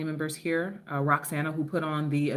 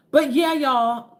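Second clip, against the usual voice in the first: drawn-out call; 7 semitones higher, 8 dB louder, slower than usual. Real, not acted. Emphatic drawn-out address.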